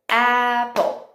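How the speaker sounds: APPLE stretched into two beats, "a" and "pple"; split into beats. Shown as a demonstration. Teacher counting beats for children, syllable by syllable. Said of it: "Que também são chamados de beats".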